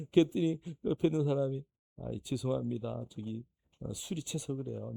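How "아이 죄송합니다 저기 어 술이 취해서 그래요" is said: much softer, lower, hesitant excuse; sheepish apology. Retold or imitated. Bystander apologizing to the pastor, soft and sheepish. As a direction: mumble an embarrassed sorry.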